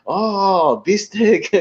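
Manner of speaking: high, thrilled exclamation; mock delighted husband. Husband delighted at the steak dinner, high thrilled mock voice. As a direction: savor it like a treat. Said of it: "and he goes".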